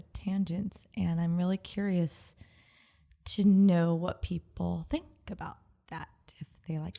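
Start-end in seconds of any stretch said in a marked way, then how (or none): 3.3-7.0 whisper. Real, not acted. Confiding aside about listeners.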